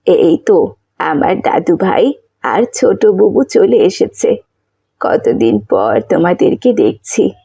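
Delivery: a doting grandma welcoming her grandkids after long; loving grandmother. Acted.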